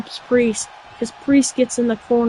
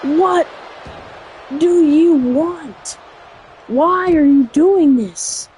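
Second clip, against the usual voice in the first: mock angry taunt; 3 semitones higher, slower than usual. Voicing wrestler's angry taunt.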